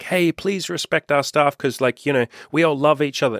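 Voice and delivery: easygoing pretend niceness, lifted in pitch; friendly plea. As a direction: gently imitate a sweet, peace-loving request. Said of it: "it's not like they're like".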